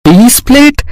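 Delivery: shocked disbelief. Acted. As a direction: echo it back aghast, pitch rising. Husband aghast at her demand.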